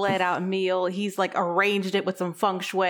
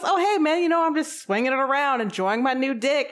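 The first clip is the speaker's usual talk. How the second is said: higher and breezy; proud robot; 5 semitones higher than usual. Retold or imitated. The robot greets Brian, showing off. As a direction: casually brag to the guy. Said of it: "he goes".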